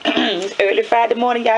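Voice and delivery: sing-song greeting. Pretend. Playful morning greeting.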